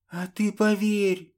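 urgent whisper, blurted high and forceful; loud whisper. A narrator's reading. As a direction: hiss it out insistently. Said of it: "выпалила она громким шёпотом". (громкий шёпот)

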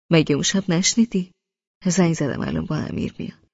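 loving and warm. Acted. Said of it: "نگاهی عاشق و مهربان و گرم گفت".

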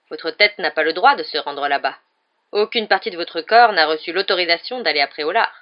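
a sneering teacher cornering a pupil; Snape. A narrator's reading. Snape interrogates Harry in a cold, menacing voice.

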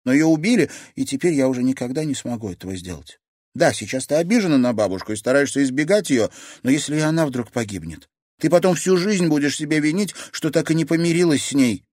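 put-on older woman, earnest and pressing; grandmother voice. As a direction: gently scold a stubborn granddaughter. Nina speaks to granddaughter.

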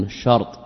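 الشرط said "ash-shart", no vowel after ر; sukun on the ra. Shown as a demonstration. Teacher showing the disallowed form, الشرط with silent-vowel ر. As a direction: close the ر straight onto the ط in الشرط. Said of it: "ولم يجوز فيه السكون".

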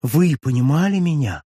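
Darcy, suddenly animated, pressing Julie about his feelings. A narrator's reading. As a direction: press her with rising passion. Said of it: "вскричал Дарси, оживляясь".

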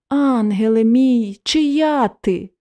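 slow, tender begging with a lift at the end; plaintive pleading. Acted. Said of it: "жалібно замолив її". (жалібне благання, повільно)

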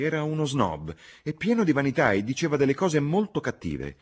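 high, loud, emphatic denunciation; indignant young Lucy. A narrator's reading. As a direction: condemn him with rising heat.

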